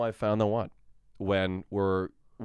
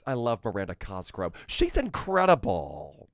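light Tim Cook impression. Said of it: "Tim, as in Tim Cook".

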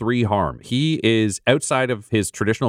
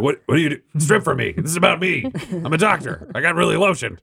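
whiny doctor; 8 semitones higher than usual. Acted. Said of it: "Doctor's like".

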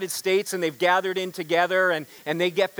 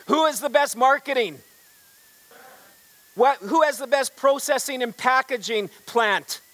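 higher, louder rally call; rousing speech question; 4 semitones higher, 3 dB louder than usual. Acted. Company president firing up salesmen at the dog food convention, rally shout. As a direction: fire up the salesmen. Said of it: "he says".

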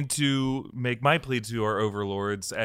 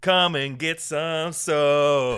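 Star-Lord impression; 6 semitones higher, much slower than usual. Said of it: "impression of an M C U character".

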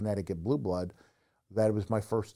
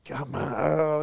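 cartoonish fury; 5 semitones higher, 4 dB louder, slower than usual. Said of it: "Not everybody can do that".

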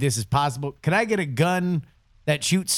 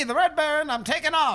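dramatic heroic voice; 9 semitones higher than usual. Acted. Dry run as Red Baron.

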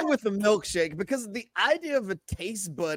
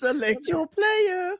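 high, slow video game announcer; high drawn-out announcer, sounding almost French; 11 semitones higher, slower than usual. Pretend. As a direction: call it like a game menu voice. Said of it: "Did you just speak French?".

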